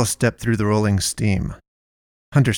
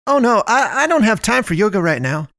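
shouting; 12 semitones higher than usual. A narrator's reading. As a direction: shout it across the store. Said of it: "Melinda shouted".

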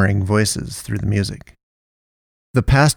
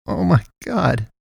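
slow, high-pitched, acted sob; sobbing; 8 semitones higher than usual. A narrator's reading. Shaken man pulled from the car by his collar, sobbing. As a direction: wail it weakly, drawn out and high. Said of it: "Hunter sobbed".

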